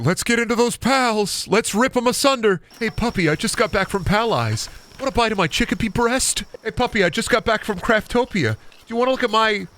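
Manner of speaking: goofy high cartoon voice; high playful character; silly high voice. Silly voice kept going.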